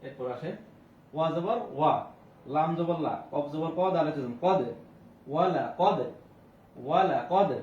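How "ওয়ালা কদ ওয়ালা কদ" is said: ওয়ালা কদ with short unstretched vowels and a bounced d; quick short vowels. Shown as a demonstration. Teacher showing quick harakat to students, ওয়ালা কদ said short. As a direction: say ওয়ালা কদ briskly, never drawing out a vowel. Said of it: "তাড়াতাড়ি করতে হবে".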